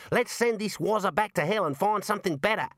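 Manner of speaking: high-pitched small wizard, impatient. Acted. A small wizard objects to the Arch-Chancellor, impatient. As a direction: complain to the boss in a high voice.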